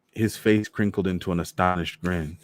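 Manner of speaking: ordinary delivery, nothing marked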